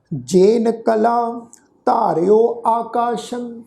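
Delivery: slow, drawn-out reading of ਜੇਨ ਕਲਾ ਧਾਰਿਓ ਆਕਾਸ਼ੰ in one flow; slow recitation. Shown as a demonstration. Teacher giving the first model reading to the sangat, slow recitation. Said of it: "ਇਹਨੂੰ ਸੁਣੋ ਜੀ".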